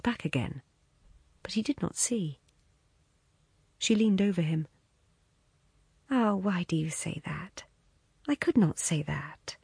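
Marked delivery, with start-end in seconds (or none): 6.1-9.6 hushed anxious whisper. Acted. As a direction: lean in and whisper it. She leans over him, intimate.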